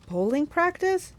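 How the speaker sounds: slow, rising sleepy question; drowsy, drawn-out puzzlement; Tyson. A narrator's reading. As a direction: drag it out, half asleep and confused. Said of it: "Tyson groaned, still half asleep".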